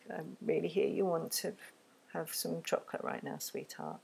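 put-on soft, tender reassurance to a child; gentle empathy. Shown as a demonstration. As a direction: soothe the upset child gently. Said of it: "I would give the empathy first".

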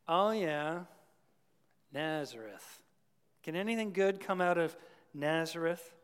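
dismissive, eye-rolling sneer at Nazareth; eye-roll scorn. Retold or imitated. Preacher mocking Nathanael's dismissive eye roll. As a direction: roll your eyes at "Nazareth". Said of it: "the proverbial eye roll".

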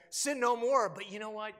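mock harsh Jesus. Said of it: "He also doesn't go and say".

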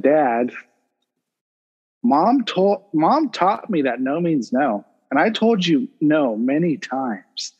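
measured, deliberate imitation of a composed kid; slow down and state it calmly, point by point; composed little lecture, imitated; calm child retelling. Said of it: "She very calmly approached me and she said".

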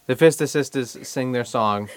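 as Boston-y as possible, dropping the R's; exaggerated Boston accent. Shown as a demonstration. Podcaster introducing the Fista Sisters' song, exaggerated Boston accent. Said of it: "saying it as Boston-y as you can".

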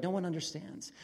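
mildly acted despair, emphatic; understated anguish, leaning on each complaint; self-pitying despair. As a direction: lament it with a touch of self-pity. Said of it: "self-pity or just despair".

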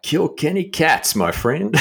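hammed-up gangster warning; mock menacing Irishman. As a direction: drawl out the threat. Scammer's hostile reply.

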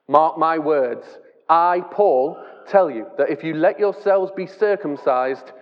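steady reading voice from the pulpit; measured Bible reading; scripture reading. Shown as a demonstration. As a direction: read the letter out to the church. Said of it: "So I'm gonna read from Galatians five".

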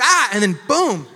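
high, loud mock scream, then a booming hit; imitated scream. Preacher retelling his son's report of Dad's fit, mock screaming. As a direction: act out the outburst at full volume. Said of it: "he screamed".

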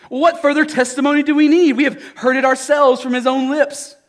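scornful elders. Acted. Elders pounce on his words.

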